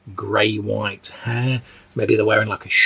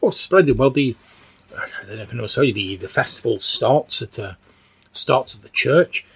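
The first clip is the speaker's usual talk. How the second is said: lightly voiced eager old woman. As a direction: chatter brightly like an old villager. Agnes character keeps talking.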